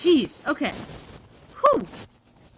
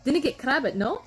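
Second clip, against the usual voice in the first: mock Scottish phrase. Shown as a demonstration. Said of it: "It sounds like".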